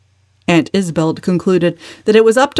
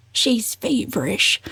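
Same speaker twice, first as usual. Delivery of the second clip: agonized whisper; 4 semitones higher, 6 dB quieter, slower than usual. A narrator's reading. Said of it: "in an agonized whisper".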